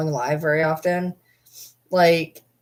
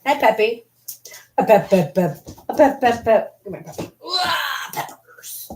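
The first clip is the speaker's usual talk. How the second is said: excited pet greeting; 6 semitones higher than usual. Real, not acted. Owner greeting Peppy, excited high baby talk. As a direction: gush over the puppy with playful calls.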